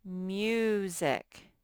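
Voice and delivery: "Music" with a drawn-out MYOO; syllable modelling. Shown as a demonstration. Teacher sounding out the first syllable, stretched syllable modelling. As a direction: stretch the long U opening "Music". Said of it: "The first syllable I hear a U".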